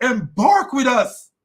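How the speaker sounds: slow, high British put-on; mock British accent. Host rereading Noah's call aboard, mock British accent.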